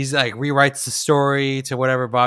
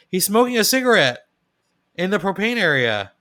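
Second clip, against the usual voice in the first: higher-pitched shocked tattling; mock alarm; 6 semitones higher than usual. Son spotting smoking by the propane, mock alarm. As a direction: imitate someone aghast at a safety breach. Son's alarmed remark acted.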